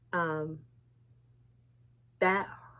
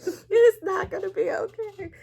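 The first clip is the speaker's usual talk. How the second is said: retold despair; 13 semitones higher, 6 dB louder than usual. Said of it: "I was like".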